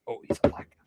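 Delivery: mock whisper. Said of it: "it's like".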